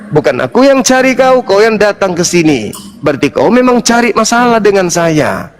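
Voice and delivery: heated accusing argument; heated accusation. Real, not acted. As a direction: press her hard, accusing.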